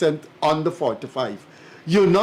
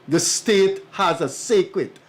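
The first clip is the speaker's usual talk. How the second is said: "sacred" slowed and weighted; stress on sacred; 3 semitones higher, slower than usual. Real, not acted. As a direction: lean slowly and deliberately on the word "sacred". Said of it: "I like to emphasize the word sacred".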